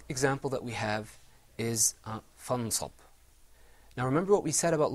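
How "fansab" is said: "fansab" with a plain, clearly articulated n; "fansab" with a crisp, short n; without ikhfa. Shown as a demonstration. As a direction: say "fansab" without hiding the noon. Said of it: "pronounced without the rule".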